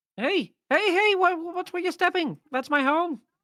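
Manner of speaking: very high, loud little talking hare voice. Voicing a hare annoyed that a traveller stepped on its home: talking hare character voice. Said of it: "you hear a voice from beneath the snow saying".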